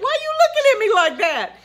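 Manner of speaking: mock confrontational question; calling her out. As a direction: call the student out on her look. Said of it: "I said".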